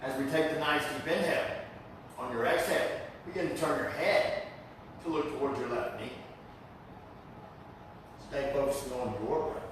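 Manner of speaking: unhurried breathing cues with pauses; calm yoga teacher's guiding voice; guided yoga instruction. Real, not acted. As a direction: lead the class gently into the breath. Leads yoga class.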